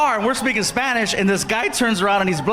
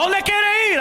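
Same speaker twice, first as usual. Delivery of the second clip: higher-pitched mock shout of the cab driver; mock yell; 11 semitones higher, slower than usual. Cab driver yelling at the comic, mock shout. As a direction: imitate the driver barking his question. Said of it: "So he's yelling at us".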